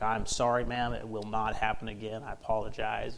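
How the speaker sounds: lightly acted, soothing shop-owner apology; calm an upset customer down; understated conciliatory tone; mildly placating. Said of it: "he tries to calm her down".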